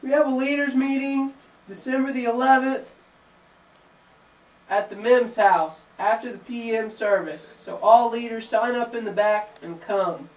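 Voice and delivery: high goofy puppet announcer. Acted. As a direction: squeak it out like a puppet. Puppet voices leaders meeting announcement.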